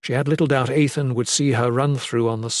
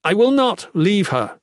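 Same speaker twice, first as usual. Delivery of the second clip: much higher, emphatic protest; sincere exclamation; 8 semitones higher, 4 dB louder than usual. A narrator's reading. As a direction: refuse earnestly to abandon her. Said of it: "he exclaimed".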